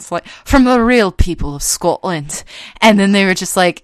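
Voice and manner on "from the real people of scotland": imitated Scottish ad voice-over; Scottish accent. Mimicking the lady in a Scotch commercial, in a Scottish accent. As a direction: put on a Scottish lady's accent. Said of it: "this lady with a Scottish accent".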